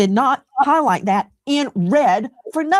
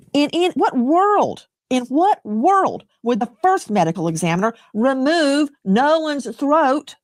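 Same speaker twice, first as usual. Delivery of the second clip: indignant disbelief. Real, not acted. Host disputes guest about first medical examiner, indignant disbelief. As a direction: draw out the question in indignation.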